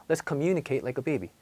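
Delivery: put-on Let's communicate like a baby at natural quick speed, stress still long; said fast. Shown as a demonstration. Teacher shows the habit holds even at speed. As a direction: say it quickly but keep the long syllable. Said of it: "빨리 말을 해도".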